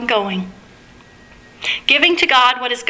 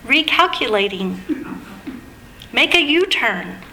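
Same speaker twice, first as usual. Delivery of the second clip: GPS voice; 3 dB quieter than usual. Retold or imitated. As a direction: read it like a patient sat-nav. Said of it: "And it was a British voice".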